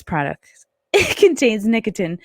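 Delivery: disclaimer read that cracks up into a laugh; can't keep a straight face on the warning. Real, not acted.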